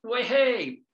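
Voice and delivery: high, loud playful cheer; celebratory cheer. Real, not acted. Preacher cheers over his wordplay in playful delight. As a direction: cheer like at a party.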